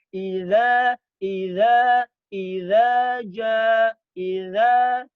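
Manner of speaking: iza drilled loudly again and again; repeated iza. Shown as a demonstration. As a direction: drill iza with the tongue behind the teeth. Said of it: "Jadi fungsi gigi seri". (iza diulang-ulang dengan keras)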